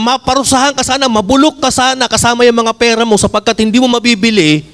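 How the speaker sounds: Peter's anger, lightly acted; mild anger. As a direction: deliver a curse with restrained indignation. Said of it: "galit na galit".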